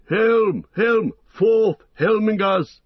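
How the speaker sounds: high rallying cry; Gamling. A narrator's reading. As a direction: call the men to charge. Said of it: "he cried".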